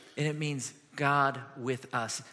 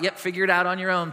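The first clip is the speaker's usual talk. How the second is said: offhand platitude. Retold or imitated. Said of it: "some platitude he can just throw out".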